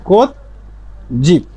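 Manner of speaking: কোত জিপ split, the second word starting near ch; changed consonant. Shown as a demonstration. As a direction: pause after কোত, then জিপ hardened towards ch. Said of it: "জিপ না হয়ে কি হবে?". (কোত জিপ, জ-কে চ-এর মতো)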